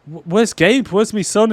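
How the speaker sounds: high, loud mock panic as a frantic father; panicked dad. Retelling the film, Eddie asks Sid for his son, high mock panic. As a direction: squeal it like a dad who's lost his kid. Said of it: "Eddie goes".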